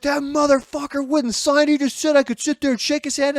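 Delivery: mock-indignant kid griping; indignant complaint. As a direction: complain like you've just been snubbed. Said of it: "He's like".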